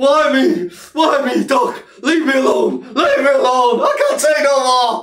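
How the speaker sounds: play-acted tearful, sobbing, blubbering delivery. Taunting someone who lost badly, the speaker mimics them, mock crying. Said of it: "crying like".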